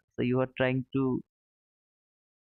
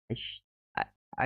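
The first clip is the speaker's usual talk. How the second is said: breathless, whispered stammer, no voice; whispered frustration; 5 dB quieter, faster than usual. Real, not acted. To viewers after a losing trade, whispered stammer. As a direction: lose your voice in disbelief.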